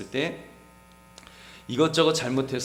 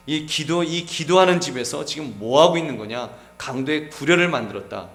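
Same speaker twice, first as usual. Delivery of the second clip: louder, indignant rebuke in Jesus' voice; preacher voicing Jesus' anger; 5 dB louder than usual. Jesus rebuking the temple traders, indignant and louder. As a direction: thunder at them as Jesus cleansing the temple. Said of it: "예수님께서 막 분노하셨습니다".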